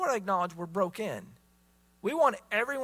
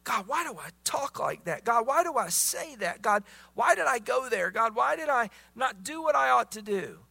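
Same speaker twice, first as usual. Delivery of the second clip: pleading questions to God, louder and higher; anguished prayer; 5 semitones higher, 4 dB louder than usual. Pretend. Believer confessing sins to God, pleading and raised. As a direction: beg God for answers.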